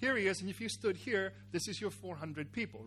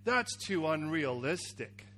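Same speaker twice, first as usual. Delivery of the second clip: low, slow dismissal; dismissive verdict; 3 semitones lower, slower than usual. Acted. Someone rejects a pitched script, dismissive verdict. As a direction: turn it down in a lowered voice. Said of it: "they'd say".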